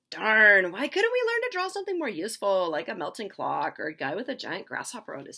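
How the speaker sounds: high, loud complaint; high, loud exasperated student; frustrated Salvador. Retold or imitated. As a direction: grumble loudly like a bored student. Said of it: "Salvador says".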